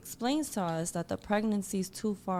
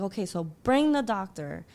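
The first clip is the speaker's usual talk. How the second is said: a louder, insistent demand, half-yelled; retold yelling; 5 dB louder than usual. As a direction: push back hard at the nurse, voice rising. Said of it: "I start yelling".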